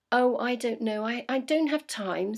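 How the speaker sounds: lightly voiced fretful beaver; flustered beaver. Busy beaver brushing off owl, lightly flustered.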